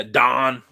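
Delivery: "Don" for "down", vowel flattened to a long ah; "Don" with one long open vowel, no w glide; Yinzer vowel. Shown as a demonstration. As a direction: say "Don" as Pittsburghers say down. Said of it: "Yinzer accents are all time".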